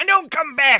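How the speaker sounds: furious yell, very high, very loud, shrill. Voicing a figure chasing beggars away from a garden: shouting at squatters. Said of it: "you hear shouting".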